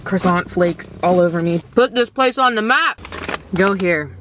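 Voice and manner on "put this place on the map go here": higher and louder, rallying; hyped-up shout-out for the bakery; enthusiastic. Real, not acted. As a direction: sell it to the viewers. Enthusiastic recommendation.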